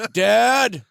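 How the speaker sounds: high, loud wailing, breaking into laughing sobs; mock sobbing. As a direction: overact the heartbroken son. Son sobbing at father's head.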